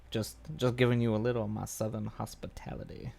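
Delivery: leering Southern accent, voice put on; a sleazy Southern charmer oozing hospitality; slimy Southern gentleman accent, played for laughs; creepy Southern drawl. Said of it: "Automatically creepy means Southern".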